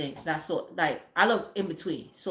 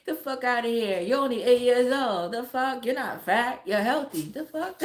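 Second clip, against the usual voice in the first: higher, incredulous telling-off; exasperated scolding; 6 semitones higher, 4 dB louder than usual. Retold or imitated. Mother insisting her eight-year-old is healthy, exasperated scolding. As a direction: protest it in disbelief.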